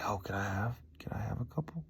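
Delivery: hushed, tentative little request; quiet polite plea for a treat; timid asking. Retold or imitated. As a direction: ask softly, as if unsure it's allowed. Meekly asking store ladies for candy.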